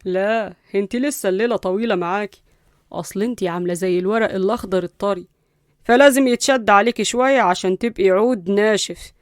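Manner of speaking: cool, restrained threat; understated cold taunting; coolly. Acted. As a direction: promise hardship without raising your voice. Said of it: "واتكلم ببرود".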